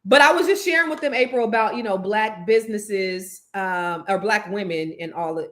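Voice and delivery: lightly put-on Jamaican lilt; a hint of Caribbean accent. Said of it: "You sound very much like".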